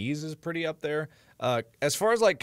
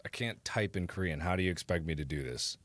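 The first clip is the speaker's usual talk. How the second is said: lower, softer grumbling; soft grumble; 8 semitones lower, 9 dB quieter than usual. Real, not acted. Streamer grumbles about typing Korean, lower and softer. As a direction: mutter the complaint to yourself. Muttered repeat of complaint.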